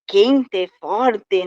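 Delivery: "quente, forte" with a crisp T before the final E; hard border T. Shown as a demonstration. Woman from the southern border showing her old accent, hard T in "quente, forte". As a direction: say each final "te" in "quente, forte" as a hard T, each word set apart. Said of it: "Eu tive que perder muito esse T".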